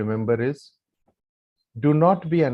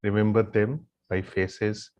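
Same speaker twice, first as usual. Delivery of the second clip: low, soft meditative guidance with long pauses; guided gratitude meditation; 4 semitones lower, 4 dB quieter than usual. Real, not acted. Yoga teacher leading the group in silent gratitude, meditative guidance. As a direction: lead them gently into silent gratitude, leaving long pauses.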